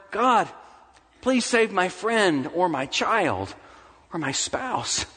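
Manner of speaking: acted petition from the pulpit; pleading prayer. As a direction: beg God on behalf of loved ones. Acts out a desperate prayer.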